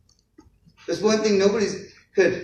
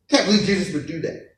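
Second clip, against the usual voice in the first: laughing disbelief. Retold or imitated. Pastor retelling his own reaction.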